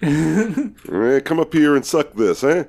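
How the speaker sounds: put-on hollering a catcall in a high New York accent. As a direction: yell it out the window like a New York street guy. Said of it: "he doesn't really have, like, an Italian accent".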